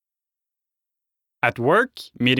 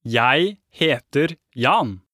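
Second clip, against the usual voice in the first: over enunciating; much slower than usual. Shown as a demonstration. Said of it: "Let's try".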